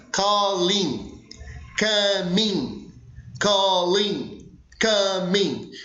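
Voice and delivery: "Calling", "coming" with the C made in the middle of the mouth; pronunciation drill. Shown as a demonstration. Teacher drills "calling, coming" for the class, C made mid-mouth. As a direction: model "Calling" and "coming" slowly, one at a time, C from mid-mouth. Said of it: "você vai produzir esse C no meio da boca".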